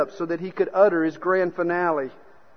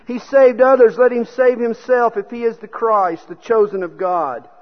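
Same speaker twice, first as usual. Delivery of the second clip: loud, raised mild sneer; 6 semitones higher, 10 dB louder than usual. A narrator's reading. Preacher voicing the rulers at the cross, mildly sneering. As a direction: read the taunt high and forceful, mildly scornful. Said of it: "the rulers with them sneered".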